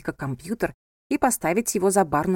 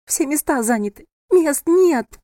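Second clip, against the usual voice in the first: higher and louder, breaking into a cry; frantic cry; 7 semitones higher, 6 dB louder, slower than usual. A narrator's reading. Bride wails to her friend, frantic and loud. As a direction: wail that there is nothing left.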